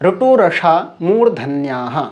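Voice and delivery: reciting the Sanskrit rule slowly, word by word; measured Sanskrit recitation, deliberate and slow; slow sutra recitation. Shown as a demonstration. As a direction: chant the sutra at half speed, syllables spaced. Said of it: "সূত্র হচ্ছে".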